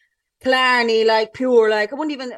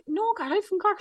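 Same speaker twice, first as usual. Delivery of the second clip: retold protest; 8 semitones higher than usual. Her own retold reply.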